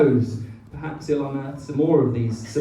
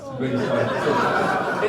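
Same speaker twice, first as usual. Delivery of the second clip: hammed-up apology; 2 semitones lower, slower than usual. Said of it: "I've never apologised".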